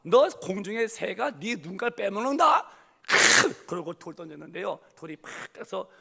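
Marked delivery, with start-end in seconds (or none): 0.0-2.8 higher and louder, slow furious yells; yelling. Retold or imitated. David yells his defiance at Goliath before battle. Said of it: "소리를 버럭버럭 지르며". 3.0-3.7 forceful grunt. Retold or imitated. Throwing the stone.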